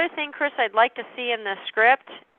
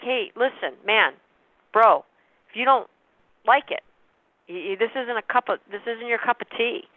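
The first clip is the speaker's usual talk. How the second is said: laid-back bro tone, a touch slangy; casual bro talk. Retold or imitated. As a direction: chat like a buddy, not a salesman. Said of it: "I don't say it like that".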